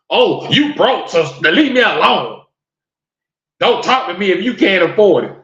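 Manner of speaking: mock dismissive woman. Mocking women refusing broke men.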